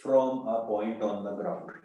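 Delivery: very slow, spaced-out words; broken-up, unhurried reading. Shown as a demonstration. Teacher dictating the rest of the question, slow and measured. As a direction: read it piece by piece, taking your time. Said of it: "तोड़ के पढ़ो आराम से".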